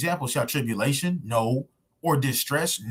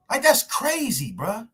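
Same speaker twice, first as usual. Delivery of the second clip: exasperated outburst; 7 semitones higher than usual. Real, not acted.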